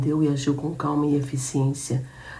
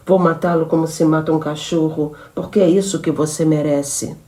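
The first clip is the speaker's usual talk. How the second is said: louder, scornful threat; contemptuous threat; 6 dB louder than usual. Acted. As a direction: spit the contempt at him. Woman threatens before firing gun. (ameaça cheia de desprezo)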